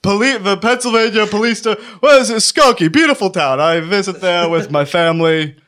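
lightly played flustered cop solicitor; police voice. Shown as a demonstration. Fake cop covers himself with small talk, police voice. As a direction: stumble along in a put-on officer's patter. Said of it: "Say it in your police voice".

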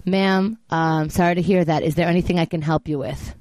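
lightly voiced customer service rep; a hint of an unmoved call centre agent; phone operator. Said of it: "She goes, um".

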